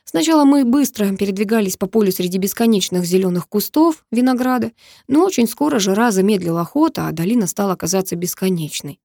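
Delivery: usual speaking voice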